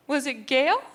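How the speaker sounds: high unsure mom voice; imitating her mom guessing. Mom guessing a childhood friend for Sprint.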